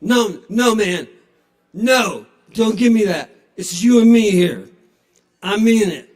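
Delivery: put-on loud, earnest drunk gushing; drunk sincerity. Drunk patron pouring his heart out to a dog. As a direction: insist the dog is the best, loudly.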